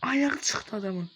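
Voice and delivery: real stunned outburst; shocked. Real, not acted. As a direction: stretch it out, amazed. Shocked at injured character.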